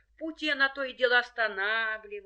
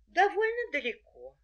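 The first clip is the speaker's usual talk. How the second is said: put-on high girlish voice; little girl voice; 9 semitones higher than usual. A narrator's reading. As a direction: play a sweet little girl. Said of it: "отвечает красная шапочка".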